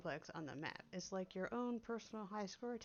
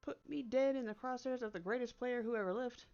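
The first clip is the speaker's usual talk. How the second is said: raised-pitch, indignant disbelief; acted indignant accusation; mildly outraged; 4 semitones higher, 4 dB louder than usual. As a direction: demand an explanation with a touch of outrage. Acted outraged confrontation over invitation.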